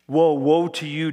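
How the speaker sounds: loud, ringing woe; reading the Lord's woe aloud, loud and ringing; prophetic woe. Acted. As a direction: proclaim it like a prophet. Prophet's declaration read aloud.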